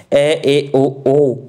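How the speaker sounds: ए and ओ each sounded twice, carefully; slow clear vowel sounds ए, ओ; vowel demo. Shown as a demonstration. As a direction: demonstrate ए, ओ with the mouth half open. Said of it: "चार word हो गए".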